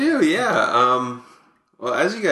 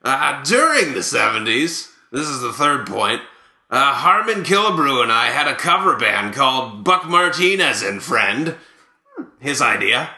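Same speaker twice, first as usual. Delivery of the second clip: Buck Martinez. Acted. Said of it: "here to present these is Buck Martinez".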